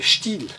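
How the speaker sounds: still, I kept brief; short I demo. Shown as a demonstration. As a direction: clip the I in still. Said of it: "o som breve". (I breve em still)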